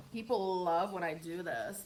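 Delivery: slow, drawn-out sarcasm; sarcastic, taking your time. Real, not acted. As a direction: say it sarcastically, stretching the words. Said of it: "That's my sarcasm".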